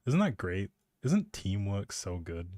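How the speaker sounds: usual speaking voice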